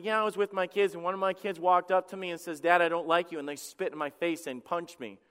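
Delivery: offhand, casual retelling with little weight; flippant. Pretend. Preacher pretending to tell listeners about his kids, flippant. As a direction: toss it off as everyday small talk. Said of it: "I was just flippantly saying this".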